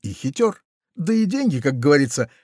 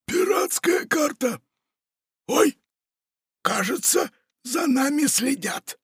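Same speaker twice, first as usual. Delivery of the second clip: secretive pirate; 14 semitones higher than usual. A narrator's reading. Pirate hushedly warns Funtik they are being watched. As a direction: warn of spies under your breath.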